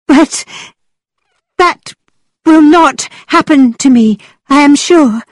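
high, nervous and shaky; trembling voice. A narrator's reading. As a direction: tremble through the denial. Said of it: "said Catherine in a trembling voice".

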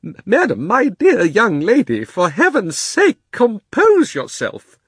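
high, loud, slow panicky plea; stammer, then plead in a trembling scream. A narrator's reading. Uncle Andrew begging the witch to compose herself, trembling scream. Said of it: "in a sort of trembling scream".

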